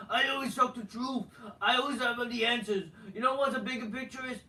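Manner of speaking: lightly performed wrestler promo voice; a touch of a self-important promo delivery; put-on promo voice. Wrestler addressing the fans who chanted, put-on promo voice. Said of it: "I'm just gonna talk in normal voice".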